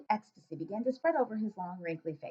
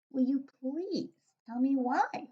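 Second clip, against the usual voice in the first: put-on higher, curious young girl; little girl voice; 5 semitones higher, slower than usual. Sophie asking the giant, light girl voice. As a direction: ask like a puzzled small girl.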